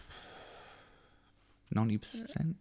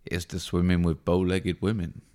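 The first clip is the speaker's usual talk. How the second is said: Quint toast; 5 semitones lower than usual. Acted. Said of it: "Mark's movie impression".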